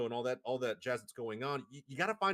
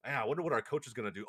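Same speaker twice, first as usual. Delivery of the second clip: musing player; 2 semitones lower, faster than usual. Acted. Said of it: "You're like".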